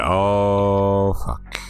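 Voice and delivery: breathy whispered dismay; whispered curse. Retold or imitated. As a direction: whisper it under your breath. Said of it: "you're like".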